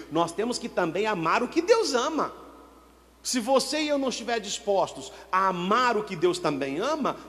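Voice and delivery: usual speaking voice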